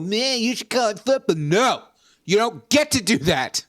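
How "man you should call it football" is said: mock snooty English. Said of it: "going around telling people".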